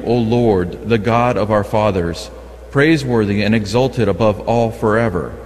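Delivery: usual speaking voice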